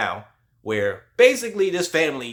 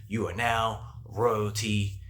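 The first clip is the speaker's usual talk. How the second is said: solemn pronouncement; much slower than usual. Retold or imitated. Masked ceremony pronouncement.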